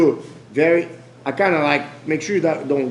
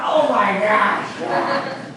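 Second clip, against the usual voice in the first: surprised; 6 semitones higher, much slower than usual. Real, not acted. Crushed in partner's hug.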